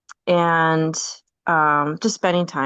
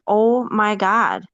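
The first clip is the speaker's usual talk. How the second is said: amazed; 3 semitones higher, much slower than usual. Retold or imitated. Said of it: "And I was just like".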